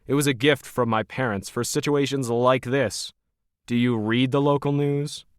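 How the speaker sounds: Logan, cold and smug. Acted. Smug Logan sizing up Krisha as hired help, lightly voiced.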